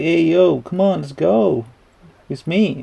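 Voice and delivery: lightly acted eager greeting; wacky excitement. Wacko guy greeting someone from his past, mildly excited. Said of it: "super excited about meeting him".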